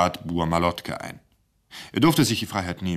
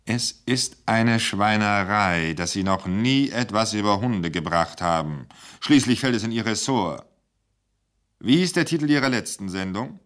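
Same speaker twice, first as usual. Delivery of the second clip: mock scolding; 4 semitones higher, 3 dB louder than usual. Director scolds Krochi over the dogs, raised voice. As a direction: tell him off, lightly hammed.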